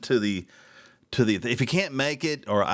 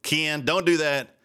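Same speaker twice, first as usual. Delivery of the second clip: a touch of sarcastic anger; needling the fireworks director by name; pissed off. Retold or imitated. Host telling off the fireworks director, mildly angry. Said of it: "Somebody said I sounded pissed off".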